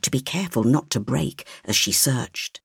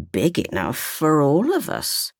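a hint of sly menace, old woman's voice; insidious grandmother; 4 semitones higher than usual. A narrator's reading. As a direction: grandmother slyly teasing the child. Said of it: "she added insidiously".

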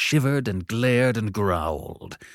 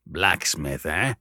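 gruff convict; 4 semitones lower, slower than usual. Acted. Convict considers.

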